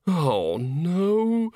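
high, despairing moan. A narrator's reading. Bucket moans to himself over the ruined opera. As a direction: wail it like ruin has come. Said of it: "moaned Bucket".

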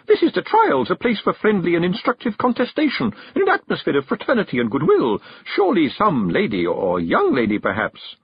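high hostess, gradually deflating; almost frantic. A narrator's reading. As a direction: start frantic and high, sink to a faint hope. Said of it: "now almost frantic".

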